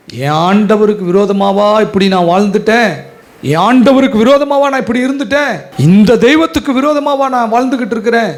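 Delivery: remorseful lament. Acted. Sinner's remorseful questions.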